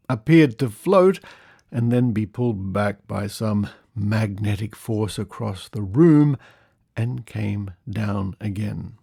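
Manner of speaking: measured, emphatic storytelling read; lively, deliberate narration; article read-aloud. Acted. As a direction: read out a curious old news report. Reads an old article aloud.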